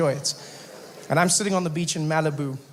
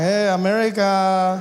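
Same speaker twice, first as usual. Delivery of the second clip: mock chirpy self; 3 dB louder, slower than usual. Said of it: "I'm like".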